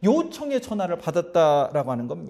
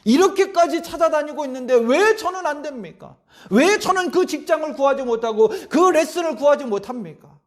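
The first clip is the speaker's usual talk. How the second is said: pleading, a touch of protest, louder and higher; arguing with God; 5 semitones higher, 3 dB louder than usual. Retold or imitated. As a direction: demand answers from God, half-complaining. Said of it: "막 따지듯이 기도하기 시작했어요".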